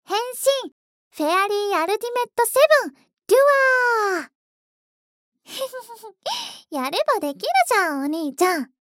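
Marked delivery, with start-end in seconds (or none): 0.0-6.7 fast, loud hero transformation shout; screaming attack name. Pretend. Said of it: "ほら、ポーズ、ポーズ".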